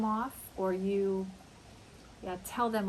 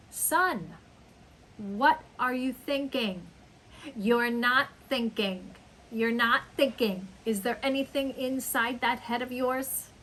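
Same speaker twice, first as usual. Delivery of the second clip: scolding parent. Acted. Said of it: "Your son leaves his dishes in his bedroom".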